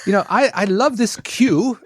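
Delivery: editor voice. Retold or imitated. Imitating an editor at work.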